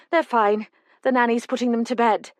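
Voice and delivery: a worried mother holding herself together; a hint of a tearful older mother; older woman's voice. Susan answers about the twins.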